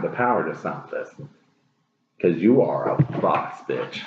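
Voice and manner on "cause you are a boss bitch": cocky pep talk, punch the end; sassy hype. Real, not acted. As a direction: drop low on bitch. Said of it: "hype to the viewer".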